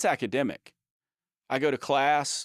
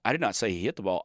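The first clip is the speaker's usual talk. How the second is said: "not" picked out, the rest falling away; stress on NOT; 3 semitones lower, much faster than usual. Shown as a demonstration. Showing how stress changes meaning, emphasis on "not". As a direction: lean on "not" in the sentence. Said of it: "depending on the stress which, which word you stress".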